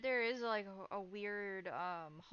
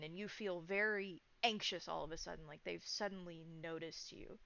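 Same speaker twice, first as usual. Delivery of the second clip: GM scene narration. Acted. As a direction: draw the players into the eerie memory. Game master's scene narration.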